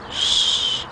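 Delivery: hushed shh; quiet them down softly; shushing. Real, not acted.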